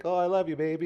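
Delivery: high, loud, swooning lover's line; mock romantic lover. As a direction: ham up a cheesy movie romance. Mocking a movie couple mid-shootout.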